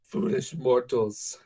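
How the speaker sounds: slow drawn-out villain line; slow mock dark lord. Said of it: "whole monologue".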